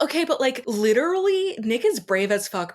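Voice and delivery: high, laughing disbelief; amused disbelief. Retold or imitated. Retelling her own reaction.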